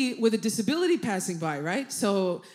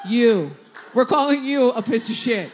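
defiant; 4 dB louder than usual. Retold or imitated. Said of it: "I'm like".

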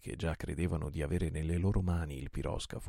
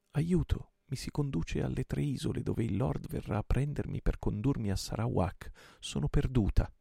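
put-on higher, desperate young woman's voice; Marianna's plea; 7 semitones higher, 3 dB louder than usual. A narrator's reading. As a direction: read it as her cry for help. Reading captive woman's letter.

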